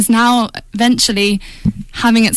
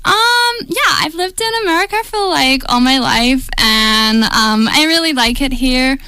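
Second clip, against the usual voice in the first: put-on American accent; 2 semitones higher than usual. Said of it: "give us your best American accent".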